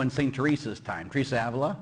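usual speaking voice

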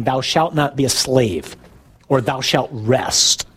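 slow, weighty pronouncement, kept low; solemn commandment. Acted. Preacher summing up the Sabbath law for listeners, solemn commandment. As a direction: lay it down slowly as law.

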